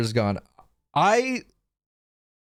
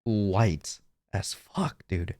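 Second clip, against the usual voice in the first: voice demo; 9 semitones lower, 5 dB quieter, much slower than usual. Shown as a demonstration. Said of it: "my voice was".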